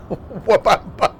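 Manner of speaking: "Wabamba" slow, L turned to W; mispronounced a song title. Retold or imitated. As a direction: sing out "Wabamba" slowly. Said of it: "The song must be a challenge".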